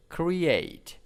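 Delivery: "create" with the second syllable stressed, then falling. Shown as a demonstration. Teacher showing students word stress, stress on "create" second syllable. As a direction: stress the end of "create", cre-ATE. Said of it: "Stress is in the second syllables".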